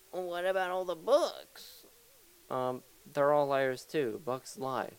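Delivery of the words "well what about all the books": higher-pitched mock child's question; imitating own kid. Kid questioning dad's story, in a higher child voice. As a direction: challenge dad in a put-on kid voice. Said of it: "my kid's like".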